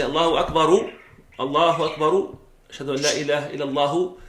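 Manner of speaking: الله أكبر said with a final u as أكبرُ; wrong voweled endings. Shown as a demonstration. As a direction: voice the case endings, the way not to. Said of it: "you don't say".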